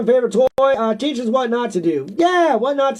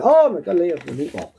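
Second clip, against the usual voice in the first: rough mock Italian accent, dropping off; amateur Italian accent tag line; 5 semitones lower than usual. Shown as a demonstration. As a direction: toss off a half-hearted Italian accent. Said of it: "the best I can do with Italian".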